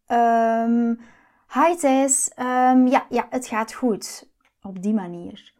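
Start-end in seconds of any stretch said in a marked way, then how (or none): 0.1-4.3 halting, caught-off-guard stammer with hesitations. Retold or imitated. The cheating date stammers to the waiter, mildly flustered. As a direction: stumble over the words like someone caught out. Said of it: "Hij stamelt van".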